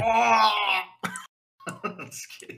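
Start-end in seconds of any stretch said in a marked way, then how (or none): 0.1-0.9 high, sudden joke yell; mock yell. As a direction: let out a kidding scream. Mock outburst, then "just kidding.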